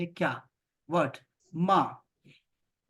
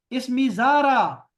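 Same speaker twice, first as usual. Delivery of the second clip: जारा slow and stressed; slow demo; 4 semitones higher, 6 dB louder, slower than usual. Shown as a demonstration. Teacher models the name phrase for students. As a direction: give इसमी जारा slowly, leaning on जारा. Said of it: "आपने कहना है".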